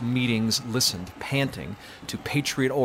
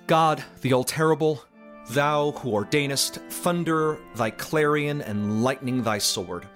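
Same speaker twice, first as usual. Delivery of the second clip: solemn invocation, raised at first, then easing down; tremendous invocation; 3 semitones higher than usual. A narrator's reading. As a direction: call on God with mounting weight, then settle. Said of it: "poured out that tremendous invocation".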